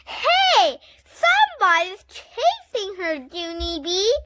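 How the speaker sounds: high loud yell. A narrator's reading. Grace yelling to Junie B about the chase, high and loud. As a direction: shout the alarm to your friend. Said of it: "she yelled".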